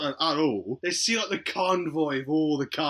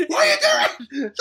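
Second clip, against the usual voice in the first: laughing; 6 dB louder than usual. Real, not acted. Laughing at the story.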